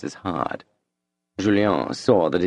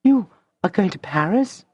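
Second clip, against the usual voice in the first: much higher, tearful cry; cried rather loudly; 12 semitones higher than usual. A narrator's reading. Madame crying out at Julien's news, tearful. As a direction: cry out in dismay. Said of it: "cried Madame de Rênal rather loudly".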